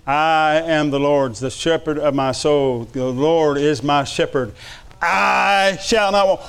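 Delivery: slow, reverent psalm reading; hushed, deliberate scripture; slow reverent recitation. Acted. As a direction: savour each word of the psalm. Quoting Psalm slowly, music.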